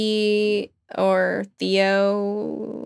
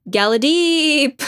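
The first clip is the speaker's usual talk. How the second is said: war cry; 6 semitones higher, slower than usual. Acted.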